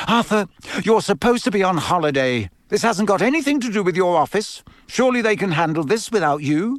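high, pleading wife; upset. A narrator's reading. Wife objecting to husband leaving, upset. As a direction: plead with him to stay. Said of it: "Missus Weasley looked most upset".

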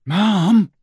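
a high shout to her mother; girl shouting to her mother, pointing. A narrator's reading. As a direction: call out to Mom across the yard. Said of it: "shouted Ginny".

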